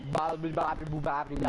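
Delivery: distorted, static-filled metallic voice; robotic mic. Real, not acted. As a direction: babble through a broken mic. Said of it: "I think it got worse".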